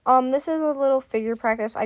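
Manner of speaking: slight lisp from a retainer. Real, not acted. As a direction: talk with a retainer in, lisping. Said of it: "if I lisp a little, I'm sorry. I had to put my retainer in".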